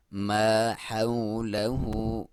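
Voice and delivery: slow tajweed demo; correct waw leen. Shown as a demonstration. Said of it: "حو نہیں پڑھنا".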